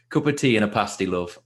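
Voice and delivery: brief, limited go at a Yorkshire accent; attempted Yorkshire accent. Shown as a demonstration. Guest from Leeds shows host his only Yorkshire accent phrase, attempted Yorkshire accent. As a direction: try your best token Yorkshire accent. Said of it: "the best I can do is".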